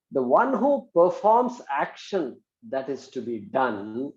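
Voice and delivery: slow, spaced-out dictation. Shown as a demonstration. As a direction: read it slowly for note-taking.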